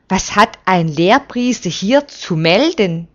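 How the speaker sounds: mild hostile snap; snapping. Acted. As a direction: spit the question out, a little sharp. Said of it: "faucht Hilkia".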